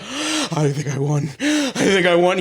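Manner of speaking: slow, breathless disbelief building into a laugh; stunned then laughing. Retold or imitated. To his friend after scratching the ticket, stunned to laughing.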